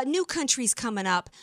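a mild mock of a nasal, whiny old judge; hint of a whiny nasal judge voice; mocking Ruth Bader Ginsburg. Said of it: "in that nasally, whiny, uh, voice of hers".

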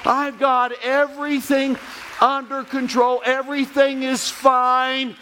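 slow, steady reassuring voice of God; calm God. Retold or imitated. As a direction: lay it down slowly, unshakable. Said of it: "God is saying".

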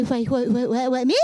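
hint of a flustered child, rising at the end; lightly voiced baffled child; flustered kid. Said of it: "like that little kid with all the questions".

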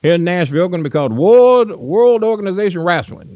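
hammed-up impression of the wrestling promoter; Nick Gulas voice. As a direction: imitate the old promoter greeting a young fan. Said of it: "That, that's kinda how he talked".

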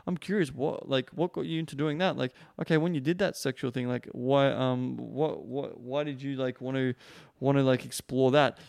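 tentative, non-judging question; curious. Shown as a demonstration. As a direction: feel your way into the question, hesitantly, wanting to understand. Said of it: "You're saying it in a way where it's kinda, like, really curious".

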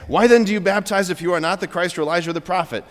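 fast, toneless recital of a question; monotone. Acted. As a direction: rattle it off like a rote reading. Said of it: "the monotone, auto-tune voice".

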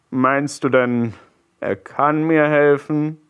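slow, voice breaking with despair; broken voice. A narrator's reading. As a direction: let the voice crack with grief. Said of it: "fragte er mit gebrochener Stimme". (mit gebrochener Stimme)

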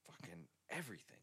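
hushed whisper, quick, a dad at forty muttering in awe; whispered dad quote. Retold or imitated. Joking about turning forty, whispering as dad. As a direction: breathe it out fast like a secret. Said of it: "he was just like".

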